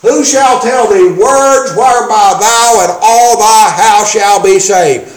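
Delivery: deliberate verse reading with "words" stressed; emphasis on "words". Shown as a demonstration. Preacher proving his point from scripture, stress on "words". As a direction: lean firmly on "words" in the verse. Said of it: "Look at the emphasis still on the words".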